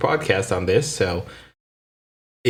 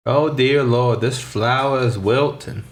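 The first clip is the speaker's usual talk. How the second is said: King of the Hill quote; 4 semitones higher, slower than usual. Retold or imitated. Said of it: "That's from King of the Hill".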